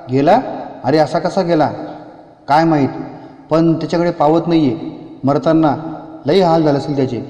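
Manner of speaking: shocked villager. Acted. Villager reacts.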